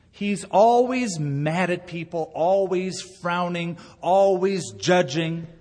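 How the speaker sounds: slow, mock stern voice; stern attack Jesus. Shown as a demonstration. Pastor describing the angry judging Jesus, slow and mock stern. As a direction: spell out each always slowly and sternly. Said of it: "the attack Jesus".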